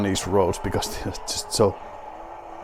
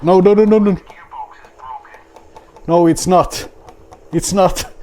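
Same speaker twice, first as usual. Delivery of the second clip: loud, high, rapid-fire protest; panicked outcry; 10 semitones higher, 7 dB louder than usual. Real, not acted. Rally driver losing control of the car, panicked outcry. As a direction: yelp in dismay as it all goes wrong. Crash during the rally stage.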